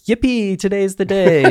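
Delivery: put-on high-pitched childlike glee; giddy yippee. Dionysus bursting into the throne room, high and giddy. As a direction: squeal it like a kid on Christmas morning. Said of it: "runs into the throne room".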